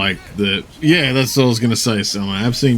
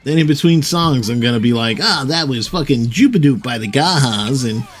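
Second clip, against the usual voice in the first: creepy AI DJ voice; 3 semitones higher than usual. Retold or imitated. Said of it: "creepily not quite human voice".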